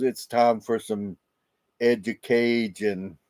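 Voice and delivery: slow, lightly imitated Cajun Louisiana accent; a mild take on a Cajun Louisiana drawl. Quoting a Cajun TikTok teacher with a light Louisiana accent. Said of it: "with his strong Louisiana accent".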